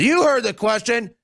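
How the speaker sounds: mock indignant high retort; imitating Sheila Jackson Lee. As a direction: snap back as the annoyed congresswoman. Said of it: "She said".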